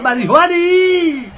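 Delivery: drawn-out yell, high and slow; exasperated shout. Real, not acted. Gamer yelling at his defender for not clearing, exasperated shout. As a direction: call the player out, slowly and loud.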